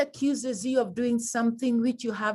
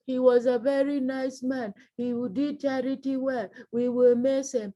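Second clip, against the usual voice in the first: requiem reading; 2 semitones higher than usual. Shown as a demonstration. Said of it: "it's not the requiem that you're reading".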